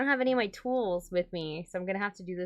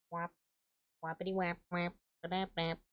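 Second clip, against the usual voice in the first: soft, low nonsense sound effects; idle rhythmic mouth noises while working; imitated whaps; 4 semitones lower, 7 dB quieter than usual.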